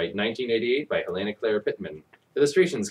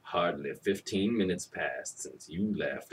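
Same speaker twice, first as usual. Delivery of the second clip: mild exclamation; 5 semitones lower, 9 dB quieter, slower than usual. Acted. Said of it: "exclamation mark and quotations".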